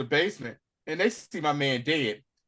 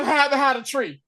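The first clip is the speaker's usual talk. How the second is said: plain; 11 semitones higher, 5 dB louder, faster than usual. Retold or imitated. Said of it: "He's like".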